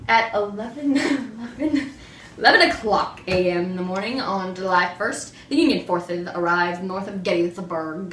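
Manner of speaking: speaking with a lisp; lisping through a burnt tongue. Pretend. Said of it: "Why do you have a lisp?".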